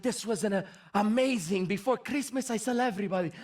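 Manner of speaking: lightly imitated old Italian nonna; Italian grandmother. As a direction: recount it in nonna's Italian-accented English. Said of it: "she starts telling me".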